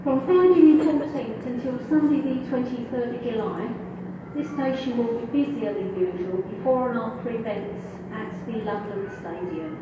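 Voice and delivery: over the station tannoy; echoing platform PA voice; train station announcement. Real, not acted.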